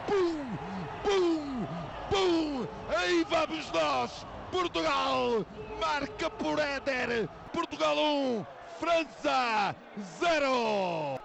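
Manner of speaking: live goal call, shouted with joy; fast dramatic football commentary. Real, not acted.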